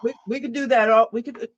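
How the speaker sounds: chewing while talking; mouth full. Real, not acted. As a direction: talk around a mouthful of chicken. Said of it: "Sorry, I'm chewing a piece of chicken".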